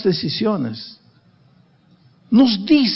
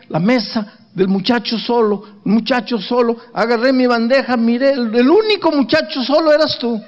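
a hint of a higher young woman's voice, rising as she goes; woman's voice, lightly voiced; 5 semitones higher than usual. Wife telling how she came to sit with him, lightly voiced higher. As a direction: voice her lightly, building to higher by the end.

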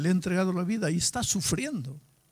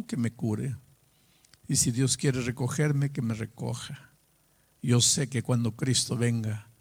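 calm acceptance; 2 semitones lower than usual. Retold or imitated. Healed-in-soul man telling his pastor, calm. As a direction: say it at peace, without pushing. Dying man at peace, retold.

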